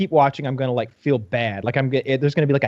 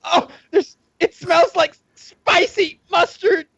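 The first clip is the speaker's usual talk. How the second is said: much higher, slow, grossed-out voice; mock disgusted report; 12 semitones higher, slower than usual. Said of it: "He's like".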